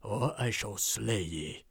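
slow, menacing dwarf warrior; gruff dwarf voice. Acted. Dwarf warrior threatening the trespassers, slow and menacing. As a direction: growl it out like a battle-hardened dwarf.

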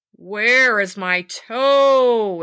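the ghost moaning from nearer by; slow corpse moan getting closer; ghostly groan, closer. Acted. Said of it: "it groaned".

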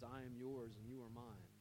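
soft whisper. Pretend. God whispering reassurance to a stressed believer, hushed and soft. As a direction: breathe it like a secret promise. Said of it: "hear his whisper to say".

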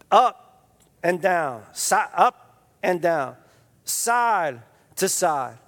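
slow, drawn-out teacher voice; Miyagi instructing slowly. Retold or imitated. Old teacher slowly coaching his pupil, drawn out. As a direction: spell it out slow like an old master.

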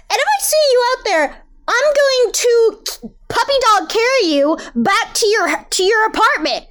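booming tipsy uncle. Acted. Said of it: "Dragonfly using the uncle voice".

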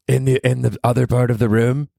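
high put-on girlfriend question; mock girlfriend.

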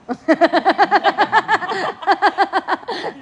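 loud, high laughter. Real, not acted. Laughing at being called late, loud laughter. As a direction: burst out laughing.

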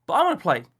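put-on high, loud child whine; a little boy sulking; whining small boy. A narrator's reading. Boy insists on playing, high whiny child.

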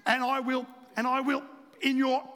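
mock screaming boss; hammed-up angry yell; retold scream. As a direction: shout it like an irate boss. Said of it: "he's screaming".

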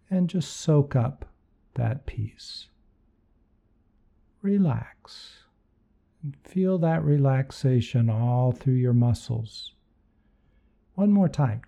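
guided meditation. Acted. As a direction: lead them gently into relaxation.

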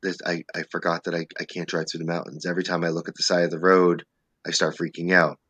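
low, soft panicky muttering; panicked murmur. Retold or imitated. Driving through the mountains, quietly panicking to herself. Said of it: "And I'm like".

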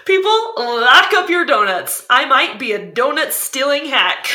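loud joking public warning; mock alarm. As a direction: ham up a fake confession.

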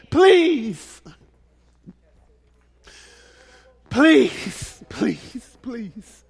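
loud first please, then dropping to almost nothing; pleading that fades to a hush; fading plea. Acted. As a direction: let the pleas die away.

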